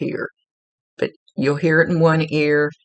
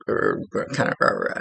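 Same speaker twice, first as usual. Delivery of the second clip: low, wordless guttural muttering; grumbling mutter; 3 semitones lower, 3 dB quieter than usual. Retold or imitated. Medium showing how a client's dad talked, grumbling mutter. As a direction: imitate someone mumbling under their breath, not mean. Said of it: "kind of grumbling type talking".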